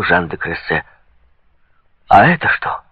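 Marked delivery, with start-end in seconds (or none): 2.1-2.8 lively, emphatic challenge; mildly raised, exclaimed question; exclaiming. A narrator's reading. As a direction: exclaim it as a retort. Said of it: "воскликнул Гуччо".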